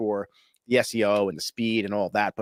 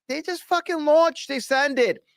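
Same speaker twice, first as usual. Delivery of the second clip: high-pitched, incredulous outburst; worked-up exclamation; 11 semitones higher than usual. Real, not acted. Host marveling at a giant company just launching, high and worked up. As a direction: argue it with your voice pitched right up.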